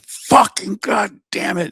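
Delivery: retold cussing. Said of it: "'cause I'm cussing up a storm".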